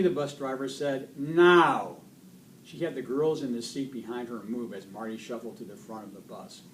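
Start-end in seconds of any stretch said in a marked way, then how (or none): 1.2-2.0 loud, higher-pitched order; firm command. Acted. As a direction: order it with no room for argument. Driver ordering bully to front.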